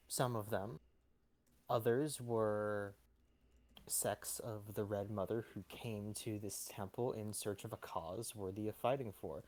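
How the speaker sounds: lightly voiced cleric, gravely measured; composed temple cleric. Game master plays the cleric.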